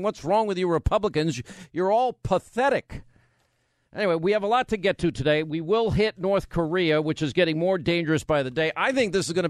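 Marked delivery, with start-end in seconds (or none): 0.0-3.0 exasperated rant. Retold or imitated. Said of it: "scratching my conservative head saying".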